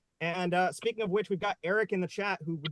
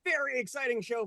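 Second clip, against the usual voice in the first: "exciting" leaned on with a higher pitch; stress on EXCITING; 9 semitones higher than usual. Real, not acted. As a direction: punch the start of "exciting". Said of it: "Emphasis on the X".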